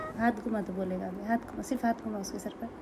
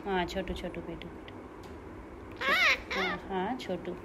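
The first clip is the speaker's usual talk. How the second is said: tender; 3 semitones lower, 5 dB louder than usual. Real, not acted. Soft cooing to bird.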